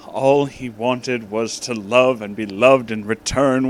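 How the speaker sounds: plain reading voice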